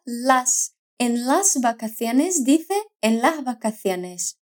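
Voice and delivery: "las" with a breathy, aspirated final s, almost an h. Shown as a demonstration. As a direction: soften the s of "las" to a light h breath. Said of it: "una S más aspirada".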